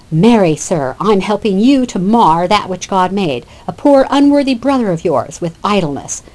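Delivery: Orlando needling his brother with mock politeness; sarcastic. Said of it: "obviously, Orlando's being sarcastic".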